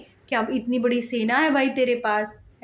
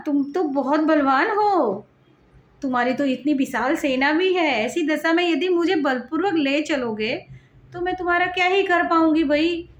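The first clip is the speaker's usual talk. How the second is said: lovingly, at ease; 2 semitones higher than usual. Retold or imitated. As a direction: tease him sweetly like a mother at play. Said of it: "बड़े प्यार से बोल रही है".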